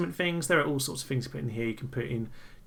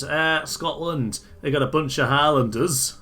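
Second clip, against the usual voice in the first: mock Scottish accent; 4 dB louder than usual. Shown as a demonstration. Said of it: "I don't know what that accent was. That was a bit Northern England".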